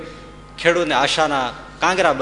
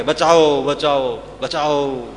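loud cry for help, fading off; cries for help; 3 dB louder, much slower than usual. Retold or imitated. Villagers crying out to the young men for help, loud then fading. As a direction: shout "બચાવો" loud, then let it die away. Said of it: "ત્યાં તો પુકાર ઉઠે".

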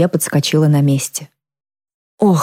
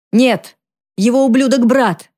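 higher, furious; angry cry; 8 semitones higher, slower than usual. A narrator's reading. Mother correcting her daughter, angry outburst. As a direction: hurl the curse at the brother.

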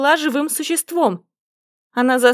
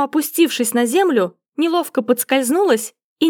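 ordinary delivery

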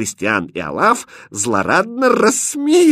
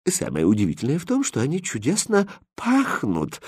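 exclaiming; 4 semitones higher, 4 dB quieter than usual. Acted. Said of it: "воскликнула первая дама".

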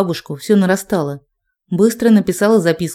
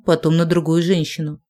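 plain reading voice

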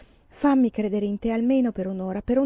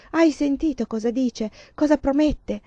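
pitched up, pressing and urgent; delirious cry; 5 semitones higher than usual. Acted. Stenio pleads with God for Lelia, feverish raised voice. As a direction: insist feverishly, hardly believing it. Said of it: "Gridò Stenio delirante".

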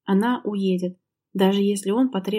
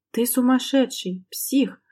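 higher, slow, a mild mock shout; shouting at him; 4 semitones higher, slower than usual. Wife shouting at her raging husband, higher and slow. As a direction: cry out in shock at his violence. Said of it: "закричала Лера".

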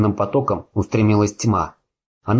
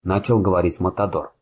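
usual speaking voice

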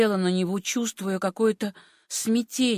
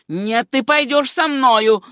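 loud, slow order; commanding; 3 semitones higher, 6 dB louder, slower than usual. Acted. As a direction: force her to obey. Uncle orders her to come. (громкий медленный приказ)

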